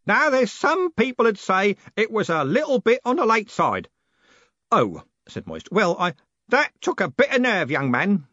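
put-on loud, high, hearty old man; blustering old merchant who never lowers his voice; old merchant booming at the young postman. A narrator's reading.

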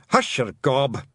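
abrupt Scottish shout; urgent hushing cry. Acted. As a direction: cut in sharply to silence someone. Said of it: "shouted the helmet Twiddler".

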